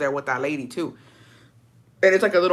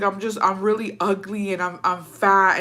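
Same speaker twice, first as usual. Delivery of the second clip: retold bawling; 3 semitones higher than usual. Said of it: "I fucking lost it".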